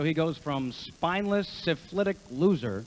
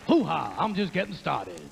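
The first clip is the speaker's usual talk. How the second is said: Al Pacino hoo-ha. Acted. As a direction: bark it like Pacino. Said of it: "an impression of Foghorn Leghorn".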